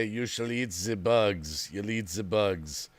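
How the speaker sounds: low, slow doom voice; ominous decree. Pretend. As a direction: pronounce it like a grim prophecy.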